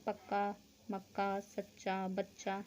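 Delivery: पक्का, मक्का, सच्चा, बच्चा slowly, holding each double consonant; half consonant held into the full one in पक्का, मक्का, सच्चा, बच्चा; doubled consonants. Shown as a demonstration. Teacher shows आधा का फिर पूरा का, doubled consonants. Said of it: "आधा का फिर पूरा का बोलते हैं".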